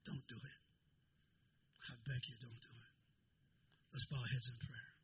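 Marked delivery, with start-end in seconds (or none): 0.1-2.9 whisper. Real, not acted. Hushed plea against divorce.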